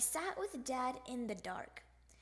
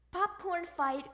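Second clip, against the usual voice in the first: higher-pitched rallying call; excited cry; 5 semitones higher, 3 dB louder than usual. Acted. Froggy starting a popcorn fight, excited cry. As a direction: announce the fun with glee. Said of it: "cried Froggy".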